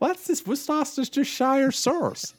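slow, drawn-out West Country burr; lightly hammed-up West Country accent. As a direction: roll it out like a West Country farmer. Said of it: "That went a bit West Country".

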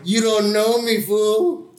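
jokey swagger, lightly put on; mock tough retort. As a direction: tease back like a cocky kid. Mock retort in retold exchange.

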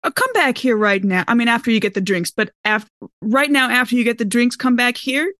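usual speaking voice

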